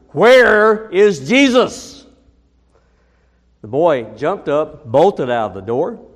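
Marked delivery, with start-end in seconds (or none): 0.1-2.0 stern, thundering full-force roar, high and loud. Telling a joke where the headmaster asks the boy a third time, thundering. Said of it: "the headmaster thundered".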